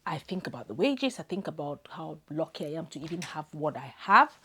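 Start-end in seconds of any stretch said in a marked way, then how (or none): 1.2-4.4 choked up, fighting back tears; words pushed out through real crying; overcome, close to sobbing; voice breaking, real tears. Real, not acted. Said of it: "Sorry, my darling. Just give me a minute".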